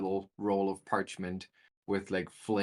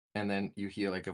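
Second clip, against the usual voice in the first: usual speaking voice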